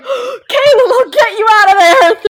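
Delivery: high, loud mock-desperate wail; Sari. Sari promises to free Caleb from the stone, frantic high wail. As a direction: cry it out frantically, playing at rescue. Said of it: "Sari was just like".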